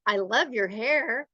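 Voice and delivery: sarcastic compliment, heavy on "love". Shown as a demonstration. Teacher demonstrates tone on a hair compliment, sarcastic. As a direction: lean on "love" so it means the opposite. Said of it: "If I'm being sarcastic".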